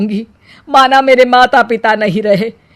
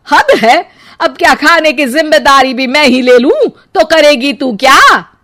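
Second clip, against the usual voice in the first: louder, higher angry scolding; 4 semitones higher, 3 dB louder than usual. Acted. Mother-in-law angrily scolds daughter-in-law about cooking, angry. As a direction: scold her in rising anger. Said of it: "अब सास को गुस्सा आ जाता है।".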